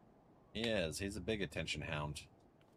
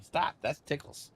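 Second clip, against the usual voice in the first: being tickled; 7 semitones higher, 7 dB louder than usual. Real, not acted. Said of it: "it's tickling me".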